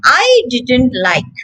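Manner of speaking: "didn't" with the T dropped before "like", slowly; silent T demo. Shown as a demonstration. Teacher showing connected speech, no T. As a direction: run "didn't" into "like" with no T. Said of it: "the T has become silent".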